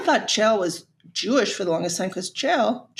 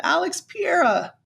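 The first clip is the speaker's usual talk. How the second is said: imitating Chael; 8 semitones higher than usual. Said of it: "that's how he was saying it".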